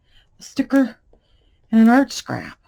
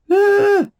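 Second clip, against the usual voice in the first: high sudden yelp; startled yelp; 14 semitones higher, 11 dB louder than usual. Real, not acted. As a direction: yelp at a sticky mess. Glue gets all over hands.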